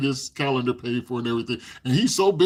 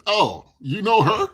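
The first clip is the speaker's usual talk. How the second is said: imitating Bob; 7 semitones higher, 5 dB louder, slower than usual. Bob voiced, surprised question.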